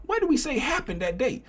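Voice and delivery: high, loud, racing through the point; fired-up teaching. Real, not acted. Teacher firing up the students about accumulation, high and loud. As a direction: preach it to the class, building hard.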